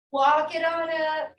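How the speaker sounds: slow, drawn-out "Walk it on up"; slow repeated cue. Shown as a demonstration. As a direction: stretch each word of "Walk it on up" slowly.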